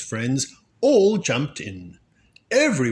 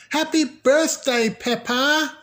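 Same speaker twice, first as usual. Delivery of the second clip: higher, louder birthday cheer; friends cheering; 5 dB louder than usual. A narrator's reading.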